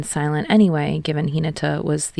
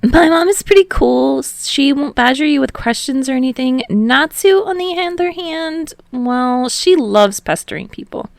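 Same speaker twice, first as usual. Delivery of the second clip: put-on much higher, louder cheerful boy; Hinata, chirpy voice; 8 semitones higher, 5 dB louder than usual. A narrator's reading. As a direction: voice Hinata bubbly and up high.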